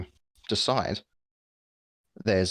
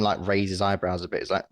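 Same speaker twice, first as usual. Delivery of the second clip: normal talking voice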